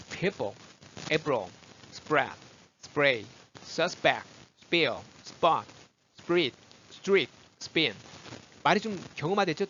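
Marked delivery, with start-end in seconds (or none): 0.1-7.9 "spray, spill, spot" with hard unaspirated p; tense consonants. Shown as a demonstration. Teacher drilling after breath tip, tense p in "spray, spin". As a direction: fire off "spirit, street, spin" singly, consonants tightened. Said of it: "된 소리로 됐".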